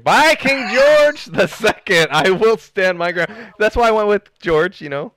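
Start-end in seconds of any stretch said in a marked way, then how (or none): 0.0-3.3 slow, lofty vow by the king; grand mock oath. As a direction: swear it like a pompous loyalist. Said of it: "Sorry, yeah, King George".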